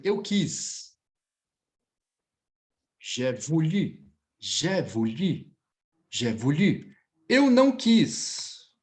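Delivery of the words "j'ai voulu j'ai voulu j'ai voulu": "J'ai voulu" said slowly and deliberately, lower; slow, lower teacher demo; slow model phrase. Shown as a demonstration. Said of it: "teacher models slowly".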